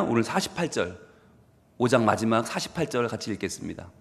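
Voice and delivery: ordinary talk, nothing marked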